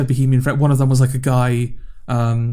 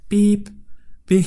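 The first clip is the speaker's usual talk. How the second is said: traffic light beep; 7 semitones higher than usual. Retold or imitated. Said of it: "she was just going".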